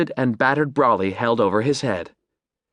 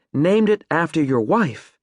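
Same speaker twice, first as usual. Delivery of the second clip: approving; 4 semitones higher than usual. Acted. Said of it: "Maddie nodded approvingly".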